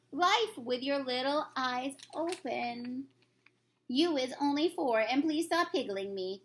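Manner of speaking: a lightly voiced kindly giant; friendly old giant, lightly put on; BFG voice. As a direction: read the giant's lines with gentle storybook character.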